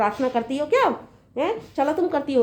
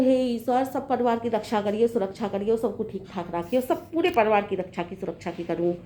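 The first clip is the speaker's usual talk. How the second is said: lowered, softer recited prayer; praying; 4 semitones lower, 4 dB quieter than usual. Acted. Daughter-in-law reciting her prayer for the family, praying. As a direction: recite a humble plea, sinking in pitch and volume. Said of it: "भगवान से प्रार्थना करती हूँ".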